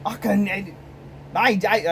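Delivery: badly faked German accent, breaking off; failed German accent. Trying to answer as Hitler, badly faked German accent. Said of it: "I can't put on a German accent".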